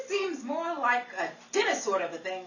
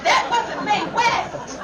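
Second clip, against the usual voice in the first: slow, higher, louder objection; indignant protest; 7 semitones higher, 8 dB louder, much slower than usual. Acted. Betty protests to Henry that it wasn't Mae West. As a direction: insist hotly, drawing it out.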